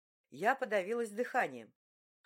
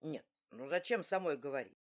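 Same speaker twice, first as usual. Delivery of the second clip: lower, brushing it off; a big man shrugging off her objection; dismissive skipper; 4 semitones lower than usual. A narrator's reading. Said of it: "снова отмахнулся он".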